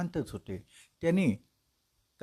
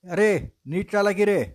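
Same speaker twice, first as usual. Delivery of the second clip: raised, louder shout at the bearers; king yells; 5 semitones higher, 4 dB louder than usual. Acted. Jolted king yells at his palanquin bearers, loud. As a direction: snap at the stumbling bearers. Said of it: "तेव्हा राजा ओरडला".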